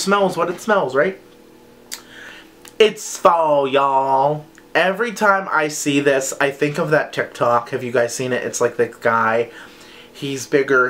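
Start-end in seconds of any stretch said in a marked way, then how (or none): 2.8-4.5 drawn-out southern drawl; playful southern twang on a catchphrase; mock southern accent. Quoting a TikTok guy to viewers, in a southern accent. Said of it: "crazy southern accent".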